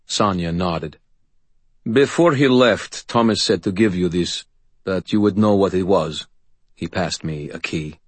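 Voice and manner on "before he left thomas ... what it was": lightly voiced steady man; Sonia's voice. Sonia speaking.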